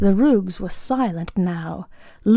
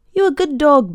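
higher-pitched praise to a dog; lifted, fond voice for a pet; praising the dog; 6 semitones higher, 4 dB louder than usual. A narrator's reading. Alf praising his dog aloud.

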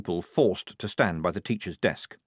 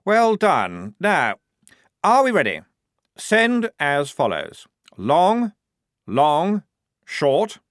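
much higher, louder officer calling the code; crisp orders; 7 semitones higher, 6 dB louder, slower than usual. Acted. Lieutenant calling the signal code to the troll, loud and high. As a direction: call out each signal clearly.

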